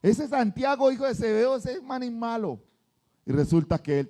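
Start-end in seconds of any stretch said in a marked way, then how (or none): 0.0-2.1 whisper-tell on John like a sly snitch; mock gossiping Peter. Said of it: "Pedro decía". (Pedro acusando en voz baja)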